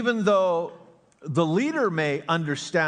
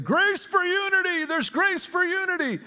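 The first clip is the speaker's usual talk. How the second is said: excited proclamation. Retold or imitated. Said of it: "I started saying".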